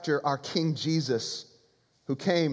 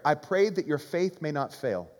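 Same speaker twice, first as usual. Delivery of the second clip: quoted prayer. Retold or imitated. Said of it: "That was his prayer".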